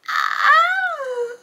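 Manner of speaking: high, loud shriek of surprise; startled scream. Real, not acted. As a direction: cry out high in shock. Startled by Luke's appearance in book.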